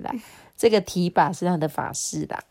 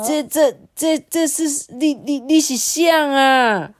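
high, stammering shock; frightened stutter, pitched up; startled father; 8 semitones higher, 5 dB louder, slower than usual. A narrator's reading. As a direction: stammer as if scared out of your wits. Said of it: "一脸惊讶， 被吓坏了".

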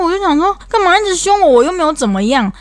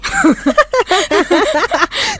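rising burst of laughter; high laugh; 13 semitones higher than usual. Real, not acted. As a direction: let a high laugh escape. Laughing at dad's apology.

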